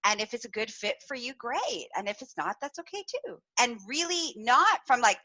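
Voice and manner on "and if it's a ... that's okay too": soft, easy, accepting tone; quietly reassuring, no hard feelings; gracious and calm. Retold or imitated. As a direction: let them go kindly. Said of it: "a really lovely email".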